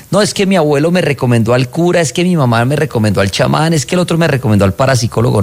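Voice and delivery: voz más aguda, imitando a quien repite consejos ajenos, acelerando al final; imitando a la gente. Retold or imitated. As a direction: remeda a la gente que cita a todos. Host mimics callers listing advice. (imitación ligera y aguda de la gente que enumera recomendaciones)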